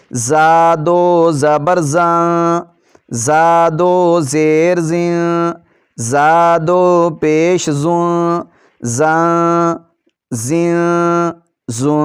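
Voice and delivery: زا said with a sharp hissing z; whistled za. Shown as a demonstration. Teacher showing the whistling sound of زا. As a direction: hiss the z of زا like a whistle. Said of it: "سی ٹی کی آواز نکالتے ہوئے زا کو ادا کریں گے".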